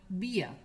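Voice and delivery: "vía" said as bia, i gliding into schwa; English "ia" diphthong. Shown as a demonstration. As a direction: say "vía" with a b and a silent R. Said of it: "E E R como en".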